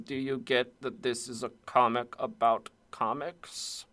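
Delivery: smug, pretentious art snob voice; art critic voice. Retold or imitated. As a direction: play a smug art critic sneering at the reader. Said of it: "it's the art critic voice".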